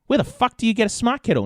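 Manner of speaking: high, astonished question; incredulous. Retold or imitated. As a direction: ask in total disbelief. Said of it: "And I was like".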